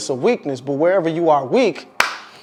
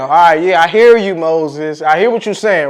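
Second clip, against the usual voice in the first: louder, firm voice of God cutting off excuses; God shutting him down; 5 dB louder than usual. Acted. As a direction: shut it down with authority. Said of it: "Then the Lord says, he shut it down".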